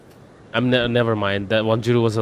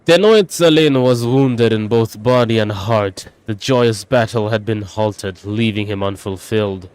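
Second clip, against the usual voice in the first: declaimed heroic narration; dramatic storytelling; 4 dB louder than usual. Acted. Gamer voicing a warrior narrating his own legend, dramatic storytelling. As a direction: tell it as an epic of outrage. Reads a tale in character.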